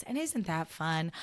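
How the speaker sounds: Ina Garten voice. Shown as a demonstration. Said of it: "In the Ina Garten voice".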